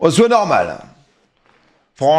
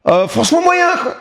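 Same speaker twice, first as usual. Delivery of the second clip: put-on African accent, pitched up; 4 semitones higher than usual. Streamer mimicking an edit of himself, African accent. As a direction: imitate an African accent, raised voice. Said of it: "en imitant l'accent africain".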